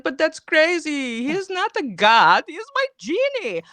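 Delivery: slow and emphatic, rising on genie; lightly hammed-up prophet protesting; mock indignant prophet. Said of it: "he's gonna be like".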